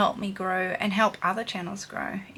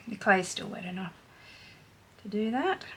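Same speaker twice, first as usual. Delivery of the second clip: throat a bit croaky; frog in throat. Real, not acted. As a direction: tickle in the throat. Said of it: "I've got a tickle in my throat".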